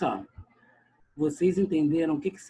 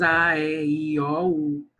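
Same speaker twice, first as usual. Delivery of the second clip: put-on Rio accent, "a, e, i, o, u" with more open, drawn-out carioca vowels; 4 dB louder, slower than usual. Teacher imitating how Rio teachers recite vowels. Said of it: "Nas cariocas".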